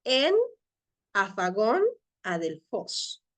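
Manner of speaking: "En Afagón Adelfos" read slowly, vowels starting without aspiration; smooth breathing. Shown as a demonstration. Greek teacher reading the first line, "En Afagón Adelfos" with smooth breathings. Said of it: "de la siguiente manera".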